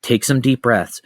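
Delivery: slow, spaced-out soothing instructions; imitated calming mom; retold reassuring mother. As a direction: talk someone down gently, pausing between each step. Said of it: "my mother came over".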